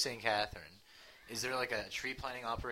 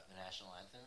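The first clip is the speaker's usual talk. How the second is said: laughing; 13 semitones higher, faster than usual. Real, not acted. Laughing mid-sentence.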